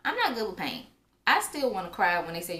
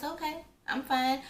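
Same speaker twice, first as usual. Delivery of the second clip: calm reassurance; 8 semitones higher than usual. Retold or imitated. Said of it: "I'm remaining calm".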